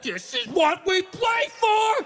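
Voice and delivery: fired-up yelling like a player in the tunnel; hyped football shout. Pretend. Dog pumped up before the game, shouting like a player. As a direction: scream it like a linebacker before kickoff.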